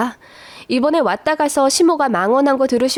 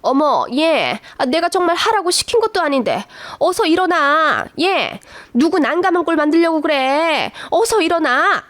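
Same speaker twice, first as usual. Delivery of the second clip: higher, flustered pleading to get up; a flustered mother-in-law hurriedly urging her daughter-in-law to get up, voiced higher; 4 semitones higher than usual. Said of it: "난감한 듯이".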